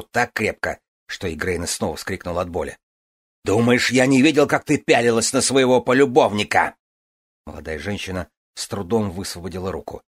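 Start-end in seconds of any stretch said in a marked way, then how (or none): 3.4-6.8 jealous shout. A narrator's reading.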